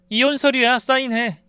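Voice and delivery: wife ordering husband to sign; cold command. Retold or imitated. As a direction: hand it over coldly. Wife hands divorce papers.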